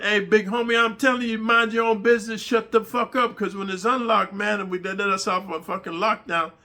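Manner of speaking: hammed-up prison threat; threatening cellmate. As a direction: warn him off, menacing. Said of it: "He said".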